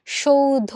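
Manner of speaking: সৌধ drawn out as "shou-dho"; sh start and closing o in সৌধ; pronunciation demo. Shown as a demonstration. Teacher showing the sound it becomes, pronunciation demo. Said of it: "ও এর মতো উচ্চারণ হয়ে".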